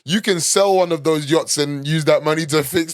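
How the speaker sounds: loud, high, indignant rant at a whole city; mock outraged rant. Ranting at Marseille over its dusty pavements, loud and mock-outraged. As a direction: call the city out, hammed-up and outraged.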